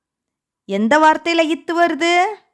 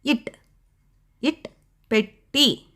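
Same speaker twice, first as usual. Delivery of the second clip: இட், பெட்டி drawn out slowly and softly; teacher slowly linking a sound to a word; slow phonics model; 4 dB quieter, much slower than usual. Shown as a demonstration. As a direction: stretch இட் then பெட்டி for the kids. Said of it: "என்ன மெய்யெழுத்து வருது அதுல?".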